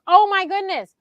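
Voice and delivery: high, loud retold gasp of concern; acting out his startled alarm; imitating someone shocked and worried. Retells John's alarm at her asthma.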